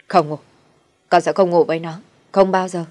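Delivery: furious refusal. Acted. Son refusing his mother, in a furious shout. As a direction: slam each no down.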